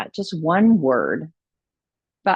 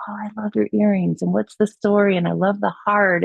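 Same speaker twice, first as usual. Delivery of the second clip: higher-pitched, lightly voiced compliment from others; imitating admirers; 5 semitones higher than usual. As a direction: mimic people admiring her earrings. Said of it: "they'll say something like".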